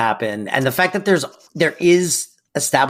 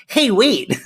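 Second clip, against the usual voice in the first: higher, startled mock call-out; sudden alarm; 7 semitones higher than usual. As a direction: catch yourself as if noticing he's gone. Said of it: "the sales girl just goes".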